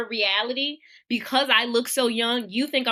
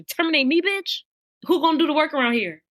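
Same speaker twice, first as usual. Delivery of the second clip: indignant retort; 4 semitones higher than usual. Retold or imitated. Retorting to threat of firing.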